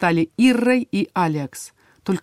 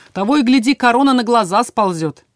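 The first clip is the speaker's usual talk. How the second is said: cheerful; 5 semitones higher, 6 dB louder than usual. A narrator's reading. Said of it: "весело подметил Иррой".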